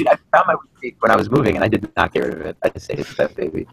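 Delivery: breaking-up call audio; bluetooth cutting out. Real, not acted. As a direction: voice dropping out on a bad line. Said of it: "you're breaking up a bit there again".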